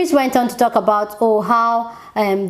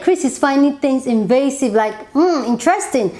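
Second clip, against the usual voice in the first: sarcastic; 4 semitones higher than usual. Retold or imitated. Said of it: "And I'm like".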